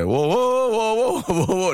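high, hammed-up bawling in bursts; mock group wailing. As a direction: imitate coworkers bawling arm in arm. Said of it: "나중에 울고". (다 같이 엉엉 우는 흉내)

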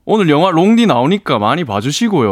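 greeting in Daegu dialect; light Gyeongsang lilt, as if addressing parents. Shown as a demonstration. Guest greeting parents on national radio, Daegu dialect. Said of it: "대구 사투리로 한번 인사 한번 해주시면".

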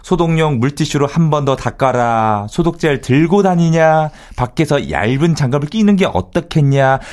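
lightly mimicked wife's nagging. Husband mimicking wife's sanitizer orders, mild nagging. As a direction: reel off orders like a nag. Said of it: "잔소리".

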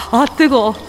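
talking through hot food; mouth full of hot food. Real, not acted. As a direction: gasp around a hot bite. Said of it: "뜨거, 잠깐만".

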